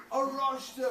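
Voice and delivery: shouted high and loud. Shown as a demonstration. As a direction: call "Aroshta" out for the kids to copy. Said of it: "Everyone after me".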